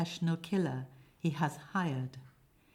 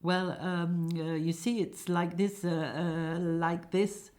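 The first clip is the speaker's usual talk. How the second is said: nervous, halting stammer; hesitant and jittery, getting nowhere; trembling. Acted. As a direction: dither through the fillers, mildly scared. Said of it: "Jim trembling".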